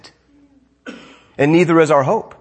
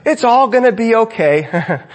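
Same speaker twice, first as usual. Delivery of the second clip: mock sunny optimist; 6 semitones higher than usual. Mocking an optimist.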